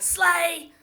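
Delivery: imitating her daughter's slang exclamation; mock teen slang. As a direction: toss out "Slay!" like a teenager would. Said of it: "punctuate it with something like".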